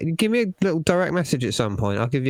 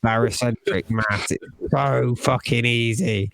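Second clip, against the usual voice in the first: exasperated rant; 3 semitones lower, slower than usual. Real, not acted. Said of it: "I'm sorry, I'm getting angry".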